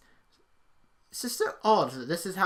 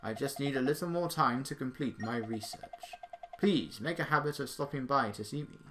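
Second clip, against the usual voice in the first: measured, understated scholarly character read; lightly voiced professor; 2 semitones lower, 4 dB quieter than usual. Professor briefs Sonic on Dark Gaia, lightly acted gravity. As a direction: play a mild, concerned old academic. Reads the professor's dialogue aloud.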